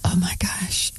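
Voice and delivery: breathy hushed gasp of disbelief; astonished whisper. Real, not acted. Interviewer reacting to students' ignorance, shocked whisper.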